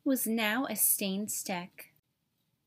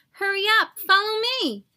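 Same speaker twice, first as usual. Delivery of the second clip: higher, louder call up the tree; excited shout, louder and higher; shouting to Stick; 7 semitones higher, 5 dB louder than usual. Acted. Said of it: "shouted to Stick".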